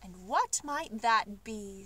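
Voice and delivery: slow, kindly question. Acted. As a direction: ask gently, like a kind grandfather. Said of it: "said the Duke in a kindly voice".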